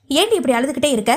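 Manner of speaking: quick, peevish question; irritated. Acted. Pavitra to the crying girl, quick and irritated. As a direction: snap it out with mild annoyance. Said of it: "எரிச்சல் துணியில் சிறுசிறுத்தவள்".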